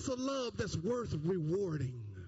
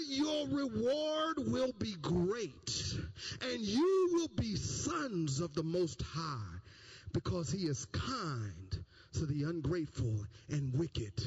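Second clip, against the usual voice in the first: slow down, dropping lower to the end; slow solemn promise; 6 semitones lower, slower than usual. Acted. Preacher promising reward, slow and solemn. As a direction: lay the promise out slowly.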